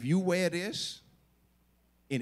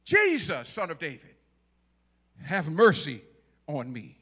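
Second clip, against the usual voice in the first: calling out; 4 dB louder than usual. Acted. Blind man calls out to Jesus.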